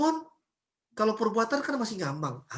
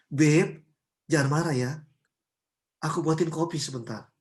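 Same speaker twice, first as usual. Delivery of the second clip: gentle endearments; 6 semitones lower than usual. Acted. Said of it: "dia ngomong semakin hari semakin lembut".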